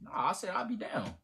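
unvoiced, muttered whisper. Real, not acted. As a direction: whisper it under your breath. Whispered protest.

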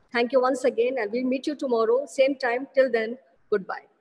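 ordinary delivery

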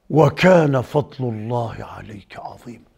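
slow, low, whispery verse; hushed recitation. Real, not acted. Preacher reciting a verse on God's favour, hushed recitation. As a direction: recite it slowly under your breath.

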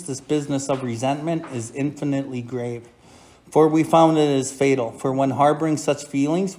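steady, measured reading of a passage; reading text aloud. Acted. Sponsor reading the Big Book to the group, measured. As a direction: read it out to the meeting, evenly.

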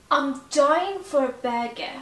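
"I'm dying for a burger" slow, words linked together; connected speech. Shown as a demonstration. Teacher models linked speech for learners, slow and careful. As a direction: link "for a" into "fo-ra", slow model line. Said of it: "از connected speech استفاده کردم".

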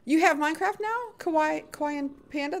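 high, excited questioning; delighted surprise. Real, not acted. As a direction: squeal the news back in delight. Delighted by a viewer's news.

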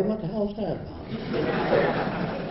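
high, slow, laughing disbelief. Real, not acted. Mocking beauty prizes to the audience, laughing. Incredulous about beauty awards.

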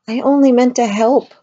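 high, loud, wailing protest. A narrator's reading. Medium wails to the children she only meant to help. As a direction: wail it like a hurt child. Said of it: "the medium wailed".

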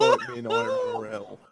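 very high mock challenge; squeaky challenge. Joking dare to a friend in a very high squeak.

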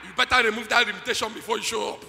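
loud, insistent warning; forceful warning. Real, not acted. Preacher warning the congregation, loud and insistent. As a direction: press the point hard.

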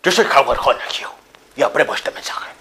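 loud, punchy campaign tagline; emphatic ad read. Acted. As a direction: sell the line big. Final loud take.

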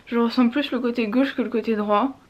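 swollen mouth, talking stiffly; after wisdom teeth. Real, not acted. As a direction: speak through a swollen jaw. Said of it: "J'arrive pas à parler, c'est horrible".

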